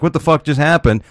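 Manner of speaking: high, stunned what-the-fuck; stunned disbelief. Retold or imitated. Slapped stranger voiced, high and stunned. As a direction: mimic a man who just got slapped.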